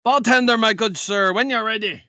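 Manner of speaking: loud call that settles down; hailing the bartender. Acted. Customer calls to the bartender, hailing him. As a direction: hail someone across the bar, then ease off. Player hails the bartender in character.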